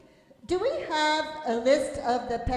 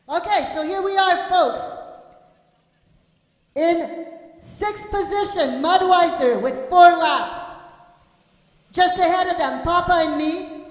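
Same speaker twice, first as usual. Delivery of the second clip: race announcer. Acted. Live race position call.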